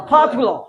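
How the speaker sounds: Popular said as फॉपुलर, with F in place of P; mocking F for P. Shown as a demonstration. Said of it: "पॉपुलर क्या हो जाएगा जी". (पी को फ़ बनाकर मज़ाक में पॉपुलर)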